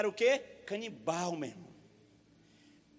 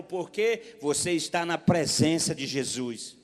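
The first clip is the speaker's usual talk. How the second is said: solemn scripture reading; 4 dB louder than usual. Real, not acted. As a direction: read the promise over the church. Scripture read out. (leitura bíblica solene e lenta)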